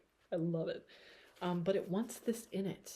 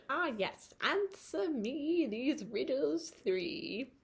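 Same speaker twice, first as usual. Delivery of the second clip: high, slow witchy riddler; mock witch posing riddles; 7 semitones higher, much slower than usual. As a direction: croon it like a storybook witch. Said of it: "get, like, weird and witchy".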